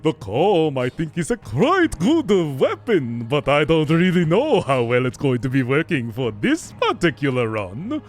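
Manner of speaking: put-on thick, theatrical vampire accent with swooping pitch; host the episode in a hammy Slavic-tinged vampire accent. Streamer introducing a Dead Cells run, vampire accent. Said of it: "I will do a vampire accent for two minutes".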